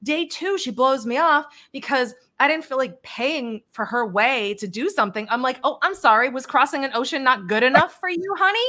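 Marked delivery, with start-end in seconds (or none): 5.6-8.6 sarcastic retort. Retold or imitated. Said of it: "talk about bitter Betty".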